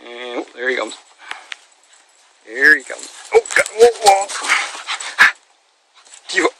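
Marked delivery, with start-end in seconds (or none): 3.3-4.3 startled cry. Real, not acted. Dog suddenly leaps in water.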